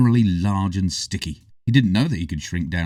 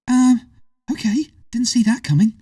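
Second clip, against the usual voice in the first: whispered, high, amazed; stunned whisper; 5 dB louder than usual. A narrator's reading. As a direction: breathe it out in shock.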